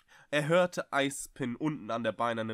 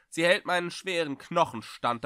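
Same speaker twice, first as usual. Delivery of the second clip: calling up; 6 semitones higher, 5 dB louder than usual. Acted. Eispin keeps calling up the stairs.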